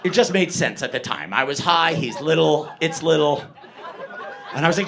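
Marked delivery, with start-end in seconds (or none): none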